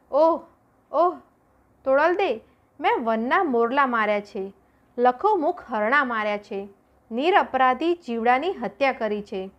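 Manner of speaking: a touch of wailing, sorrowful admission; anguished confession. Acted. Jesal confesses his killings to Toral, anguished. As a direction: pour out the guilt with a moan.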